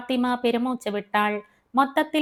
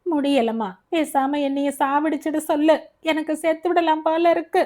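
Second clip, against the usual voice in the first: moaning in pain; 5 semitones higher than usual. Acted. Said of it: "Salim முனக".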